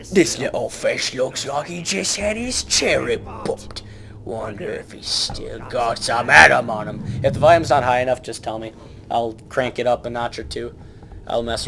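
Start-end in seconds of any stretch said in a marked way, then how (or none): 0.1-7.0 whisper. Pretend. Creepy whisper over game.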